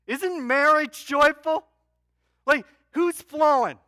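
loud, high preaching call; booming, high-energy appeal to the crowd; rallying cry. Real, not acted. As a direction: fire up the room.

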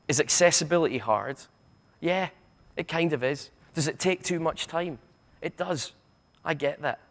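sarcastic questions and concessions, well spaced out; dry mock-sympathetic Glaswegian sarcasm. Shown as a demonstration. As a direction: feign sympathy, Glaswegian style. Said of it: "my little bit of sarcasm".

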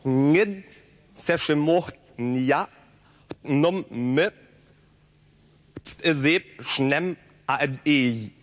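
sentence spoken sound by sound in reverse; backwards speech. Shown as a demonstration. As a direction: reverse the whole sentence fluently. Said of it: "Sie können sich fließend mit Menschen rückwärts unterhalten".

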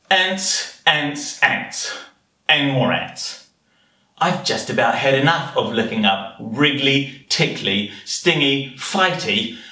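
anteater relishing each word, with pauses; children's story narration. Acted. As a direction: read it to little ones, savouring the menu. Reads picture story as the anteater.

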